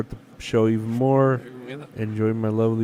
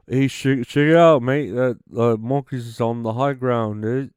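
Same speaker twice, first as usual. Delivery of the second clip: put-on light British accent, lifting on check it out; a breezy British bloke pointing out the monkey; 3 dB louder than usual. Mocking British scientists in a breezy British accent. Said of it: "I do it in a British voice".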